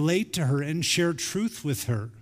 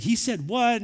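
surprised; 7 semitones higher than usual. Retold or imitated. Daughter laughing in disbelief.

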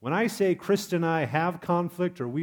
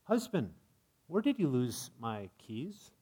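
accusing; 5 dB quieter than usual. Shown as a demonstration. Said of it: "you could say".

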